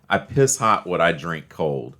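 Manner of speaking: slow, deliberate tough-guy line; badass delivery. Friend declaiming the Romans' badass phrase, slow tough delivery. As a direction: deliver it slowly like a badass motto. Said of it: "That's how you deliver that shit".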